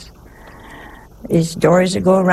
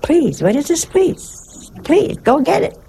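mock Italian outburst; 8 semitones higher than usual. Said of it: "sisters used to say".

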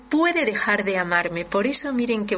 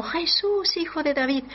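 pleading cry; 4 semitones higher than usual. Retold or imitated. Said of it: "uno gritando ahí en el camino".

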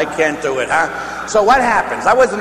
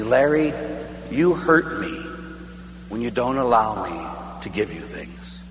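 lightly voiced wounded grandmother, sinking softer at the end; tearful hurt grandma; 5 semitones lower, 6 dB quieter than usual. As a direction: let the hurt trail downward, understated. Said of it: "my grandmother started to cry".

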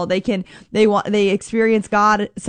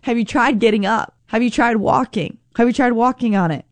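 lightly teasing gentle questions; a hint of playful nudging as Jesus; mildly playful coaxing. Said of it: "Jesus is kind of saying in a playful way".

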